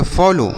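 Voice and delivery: "फॉलो" ending in a long o; ow read as o. Shown as a demonstration. Teacher shows the exception, "फॉलो" ending in o. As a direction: model "फॉलो" with o, avoiding au. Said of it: "इसे पढ़ेंगे".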